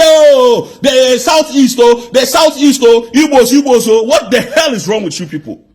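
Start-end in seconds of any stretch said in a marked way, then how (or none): 0.0-4.0 a mocking, exaggerated cry of oh, the Southeast; mock outcry. Mocking the critics who will blame the Southeast, hammed-up outcry. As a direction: wail it the way the critics complain. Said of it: "they will say".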